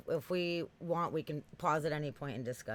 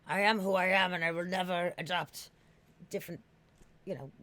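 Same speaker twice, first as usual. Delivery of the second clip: a touch of a grand, stubborn declaration, a bit higher; mock proud self-quote; 3 semitones higher, 4 dB louder than usual. Streamer mocking her own stubborn pride, mildly grandiose. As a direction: puff up a little as if proclaiming your principles. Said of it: "I'm such a, like".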